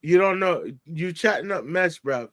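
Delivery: rough attempt at English accent slang; mock English accent, pitched a little down; imitated English accent. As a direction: lightly put on an English accent. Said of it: "he's talking his English accent like".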